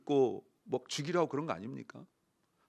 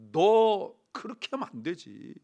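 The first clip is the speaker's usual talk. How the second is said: mock scolding; 2 semitones higher, 4 dB louder than usual. Pastor playing Jesus telling off a humble follower, mock scolding. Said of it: "예수님이 혼내시면서".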